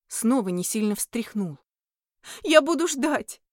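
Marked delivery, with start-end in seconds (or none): 2.4-3.4 high, tearful sob on the words; sobbing promise. Acted. Heroine promises the departing demon, sobbing. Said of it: "всхлипнула я".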